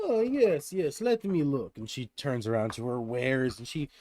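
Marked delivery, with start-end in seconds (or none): 0.1-1.8 put-on Russian accent. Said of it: "with a thick accent".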